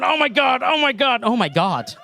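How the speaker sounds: loud repeated cries, starting high and falling; mock overwhelmed moaning. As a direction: cry out in hammed-up relief. Acts out straining relief on toilet.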